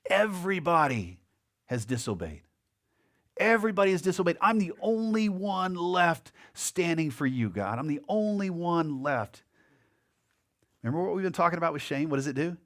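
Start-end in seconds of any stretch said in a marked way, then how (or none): 3.4-9.4 a hammed-up lament to God; mock self-pity. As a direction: play up Elijah's wounded self-pity. Elijah's whining complaint to God.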